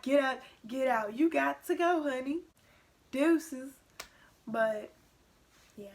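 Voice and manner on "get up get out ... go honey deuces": sassy mom dismissal. Retold or imitated. Mom kicking her out.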